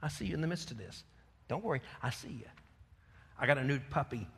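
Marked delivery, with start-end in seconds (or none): 0.0-2.5 a hint of soft, quick reassurance as God; gentle God voice. God reassuring the worried believer, softly. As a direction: soothe them like a watching father. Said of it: "He's looking right at you".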